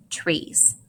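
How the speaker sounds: breathy soft reading of "trees"; soft title. Shown as a demonstration. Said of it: "here's the last one".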